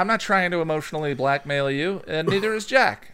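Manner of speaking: fake-innocent pleading; mock pleading voice. Host pleads with listeners in a silly put-on voice.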